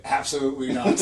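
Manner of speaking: laughs it out; cracking up on the answer; bursting into a real laugh. Real, not acted. Laughing at fan's question.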